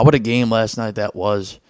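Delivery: ordinary talk, nothing marked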